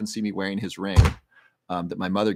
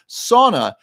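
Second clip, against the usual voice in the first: excited exclamation; 12 semitones higher, 10 dB louder than usual. Real, not acted. Bursts out reading a topic.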